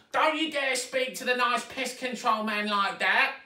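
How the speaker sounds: high, loud screech of a bossy stepmother. A narrator's reading. Stepmother scolding Zoe in front of Bert, high screech. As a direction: screech it down at the girl. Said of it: "she screeched".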